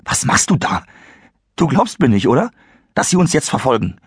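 anxious Christopher. Acted. Christopher nervously presses Kyle from the back seat.

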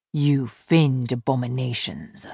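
gruff fae man sneering at mermaids; scornful insult. Acted. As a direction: spit the words out with contempt.

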